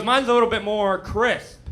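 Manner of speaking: slow and precise, s sounds crisp; slow, crisp explanation. Retold or imitated. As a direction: explain patiently to the lisping patient. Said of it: "she goes".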